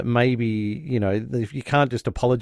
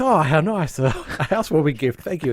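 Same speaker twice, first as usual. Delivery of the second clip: high mock delight with a laugh; imitating Alf's cheeky thanks; sarcastic; 5 semitones higher than usual. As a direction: fake gratitude, laughing. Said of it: "and Alf goes".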